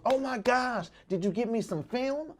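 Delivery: a lightly voiced excited mother; imitating mom. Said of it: "First thing she said was".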